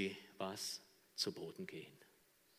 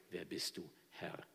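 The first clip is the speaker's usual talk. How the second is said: soft, lower humbled question; hushed awe; 4 semitones lower, 6 dB quieter than usual. Acted. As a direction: whisper it from the dirt. Saul in the dirt. (leise, demütig gefragt)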